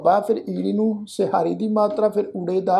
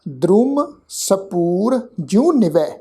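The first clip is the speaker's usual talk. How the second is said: slow, careful verse reading with pauses; slow recitation; much slower than usual. Shown as a demonstration. Teacher showing the sangat how to recite. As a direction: lay out every word for listeners to copy. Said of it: "ਇਹਨੂੰ ਸੁਣੋ ਜੀ ਧਿਆਨ ਨਾਲ".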